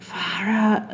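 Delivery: whispered, exhaled aside; retold whispered exclamation. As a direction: let it out under the breath in disbelief. Retold muttered reaction to advice.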